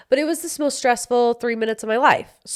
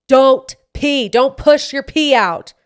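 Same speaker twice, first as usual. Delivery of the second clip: higher, louder and slow, like a stern expert wagging a finger; mock scolding specialist; 5 semitones higher, 7 dB louder, slower than usual. Pelvic floor specialist scolding her for pushing, mock stern and louder. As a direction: scold yourself the way a pelvic specialist would, half-joking.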